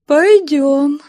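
high, loud tearful reply. Acted. Weepy woman agreeing to go, tearful. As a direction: agree through tears. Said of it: "плаксиво сказала".

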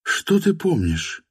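high, slow woman's question. A narrator's reading. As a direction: repeat it slowly as her. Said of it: "повторила Настя". (женским голосом, медленно)

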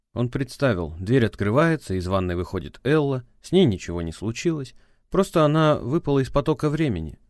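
ordinary talk

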